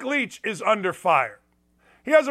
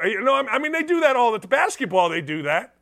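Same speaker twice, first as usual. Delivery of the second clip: ordinary delivery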